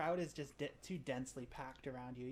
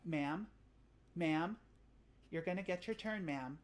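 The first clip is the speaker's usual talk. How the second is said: put-on flustered young cadet; 5 semitones higher, 11 dB louder than usual. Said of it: "He says".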